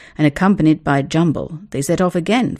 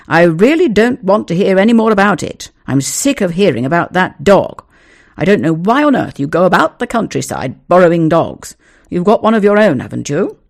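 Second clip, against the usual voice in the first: exasperated scolding; 7 dB louder than usual. Acted. Father scolding son.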